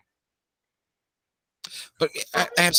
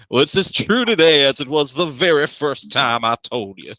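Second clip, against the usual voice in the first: booming voice; 2 semitones higher, 4 dB louder than usual. Acted. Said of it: "Lord Bormier's booming voice".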